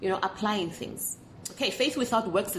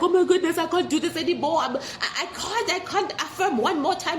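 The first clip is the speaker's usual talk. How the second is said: mock frazzled rant, higher and laughing; mock exasperated; 5 semitones higher than usual. Vlogger imitating a frustrated viewer, mock exasperated. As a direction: play it as a fed-up manifester at the end of her rope. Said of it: "You shouldn't feel like".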